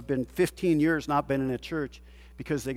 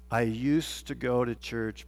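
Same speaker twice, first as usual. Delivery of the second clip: 1 quiet imitation; 7 semitones lower, 7 dB quieter, slower than usual. Quoting a hurt churchgoer.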